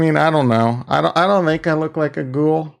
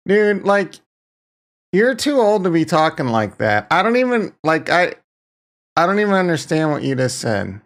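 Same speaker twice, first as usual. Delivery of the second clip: exasperated friend voice; 3 semitones higher than usual. Pretend. Reading viewer chat in a voice.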